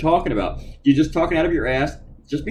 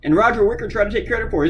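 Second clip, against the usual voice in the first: ordinary talk, nothing marked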